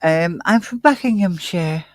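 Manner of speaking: copying her London Buckinghamshire; mimicking her accent. Co-host imitating her way of saying Buckinghamshire. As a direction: echo the way she said it, lightly. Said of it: "the difference in the way she spoke".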